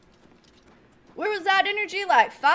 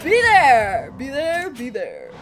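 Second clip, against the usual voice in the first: hype call; 4 dB louder, slower than usual. Acted. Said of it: "hype call".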